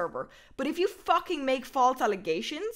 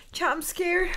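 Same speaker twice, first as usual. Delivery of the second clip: nervous, higher and louder; scared; 5 semitones higher, 4 dB louder than usual. Real, not acted. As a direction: say it like you're frightened.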